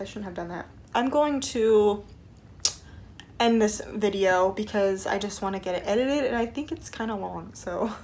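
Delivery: talking around a mint; mint in mouth. Real, not acted. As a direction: mint in mouth, words slightly thick. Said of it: "I just put a mint in my mouth".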